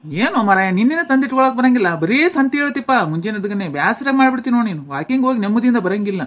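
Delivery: loud, irritated complaint; exasperated grumbling. Acted. Husband to wife over morning errands, loud exasperation. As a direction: grumble loudly, fed up.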